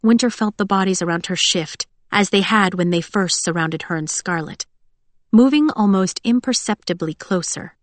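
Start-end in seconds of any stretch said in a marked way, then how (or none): none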